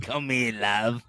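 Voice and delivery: put-on British flirting voice; mock British accent. Host imitating a British person flirting, mock British accent. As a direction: play a hammed-up British suitor. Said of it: "And then the British".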